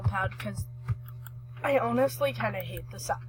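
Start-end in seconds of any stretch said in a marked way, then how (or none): 1.6-3.2 talking through hiccups; hiccuping between words. Real, not acted. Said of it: "Sorry, I'm hiccuping".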